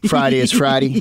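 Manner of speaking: second "Friday" said the Appalachian way, ending "-dee"; Appalachian pronunciation. Shown as a demonstration. Showing his returning accent, Appalachian "Friday". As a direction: turn the last "Friday" into country "Fridy". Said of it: "when I get on the phone".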